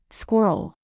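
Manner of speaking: squirrel said carefully in two parts, skwer-uhl, falling at the end; broken-down pronunciation. Shown as a demonstration. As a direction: break squirrel into its pieces for a learner. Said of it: "It helps to break it down".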